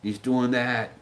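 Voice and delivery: slow, lightly voiced fretting wife on the phone; a hint of a worn-out wife reporting, drawn out; worried wife. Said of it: "phone calls from his wife like".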